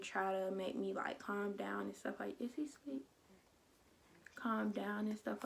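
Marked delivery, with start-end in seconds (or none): 2.4-3.1 real whispered question; hushed aside. Real, not acted. Checks on sleeping baby mid-story.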